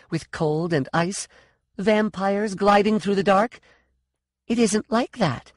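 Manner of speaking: high, indignant arguing; exasperated, challenging character voice; insistent challenge. A narrator's reading. Continuing angry challenge in story.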